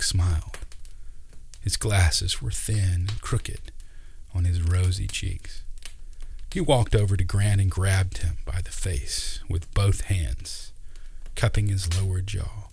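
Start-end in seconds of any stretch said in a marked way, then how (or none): none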